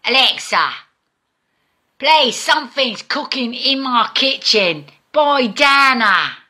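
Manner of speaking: put-on American accent for Alexa. Fed-up Scot trying an American accent on Alexa. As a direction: flatten it out like an American to get Alexa to understand. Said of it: "I need to do it in an American accent".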